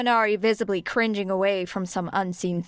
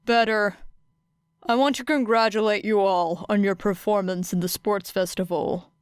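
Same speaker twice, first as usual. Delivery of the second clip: Aizawa's voice. Acted. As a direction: address the class flatly. Teacher Aizawa addressing class.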